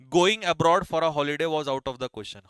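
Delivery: example sentence read very slowly; teacher slowly reading the example sentence; slow dictation. Shown as a demonstration. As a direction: lay out every word slowly for the class. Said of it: "holiday के लिए जाना".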